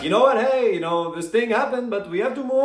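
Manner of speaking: Gane's French attitude. Retold or imitated. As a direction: play it light, moving on with a shrug. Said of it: "Gane's French attitude".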